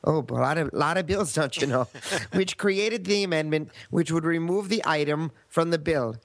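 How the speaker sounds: put-on chatty Minnesota accent. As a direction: stay in the Minnesotan voice. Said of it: "speak in a Minnesota accent if you can".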